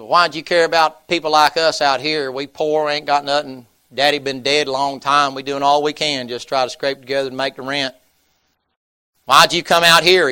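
a poor son demanding to know why; defiant farm boy. Acted. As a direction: push back hard at the preacher. Poor farm boy challenges preacher.

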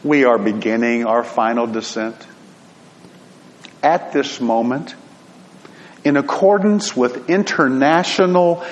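calm airline captain on the intercom; steady, even cockpit announcement; pilot voice. Retold or imitated. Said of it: "I'm gonna try to do this in a pilot voice".

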